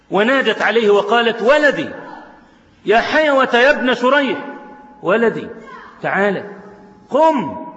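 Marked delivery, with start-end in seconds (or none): 1.4-7.6 raised calling voice of a mother at the window. Acted. Mother calling her son from window.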